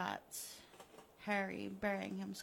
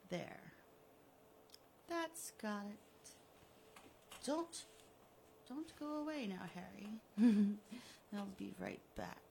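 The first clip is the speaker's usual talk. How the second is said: gloating villain. Acted. Killer taunting the buried Harry, smug and mocking. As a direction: taunt him like a cat with a mouse. Villain finishes burying him.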